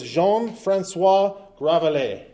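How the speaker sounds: half-hearted French accent on the name; sad French accent. Shown as a demonstration. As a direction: give the name an amateur French pronunciation. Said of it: "That's my sad French accent there".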